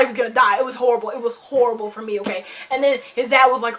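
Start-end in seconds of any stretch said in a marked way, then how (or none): none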